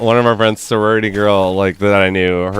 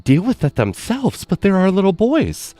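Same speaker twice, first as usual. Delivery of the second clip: mock doting mom; 10 semitones higher than usual.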